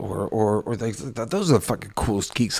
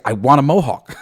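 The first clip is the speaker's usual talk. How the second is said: laughing demand; 2 semitones higher, 10 dB louder than usual. Retold or imitated. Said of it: "I'm just like".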